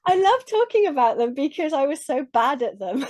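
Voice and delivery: laughing. Real, not acted. Laughs at own past failings.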